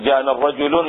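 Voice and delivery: "الرجل" ending in an audible -un; wrong tanween form. Shown as a demonstration. Teacher showing what is not allowed, wrong tanween form. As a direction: say "الرجل" as ar-rajulun, with forbidden tanween. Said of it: "ما يجوز".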